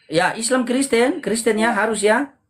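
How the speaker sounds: talking around a cigarette; cigarette in mouth. Real, not acted. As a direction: smoke between words. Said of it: "saya sambil merokok ya".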